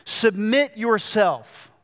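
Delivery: "Submit yourself" said very slowly, each word weighed; slow emphasis. Shown as a demonstration. Pastor stressing the reflexive verb to the church, slow and weighty. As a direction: lean on "Submit" and drag out "Submit yourself". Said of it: "a reflexive action".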